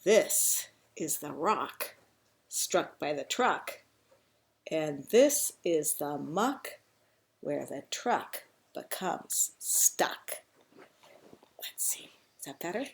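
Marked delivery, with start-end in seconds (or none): 0.0-10.4 put-on slow, measured reading to children; picture-book storytelling. A narrator's reading. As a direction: spell out the rhyme for small listeners, unhurried.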